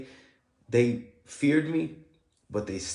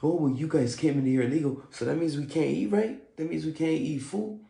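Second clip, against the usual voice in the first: mocking the guard; 5 semitones higher than usual. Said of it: "that's ten times worse".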